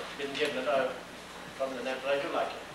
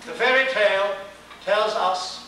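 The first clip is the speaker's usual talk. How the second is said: measured poetry recital, each line set apart; lightly heightened poem reading; 2 semitones higher than usual. Acted. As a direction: read the verse with gentle weight. Reads the poem aloud.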